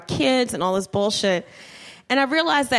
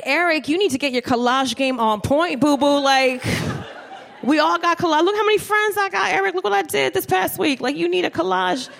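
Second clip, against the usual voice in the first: rising higher, pushy and excited; pushy lecturing girlfriend; 5 semitones higher than usual. Retold or imitated. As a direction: nag him about his collage game. Lecturing boyfriend about collages.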